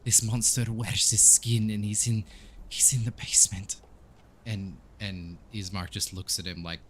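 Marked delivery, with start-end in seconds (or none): 0.0-3.8 put-on lightly accented, mournful priest; halting, heavy reply from a grieving father; grieving Donovich. Priest telling Ismark his son is dead, mournful. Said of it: "And he, he says".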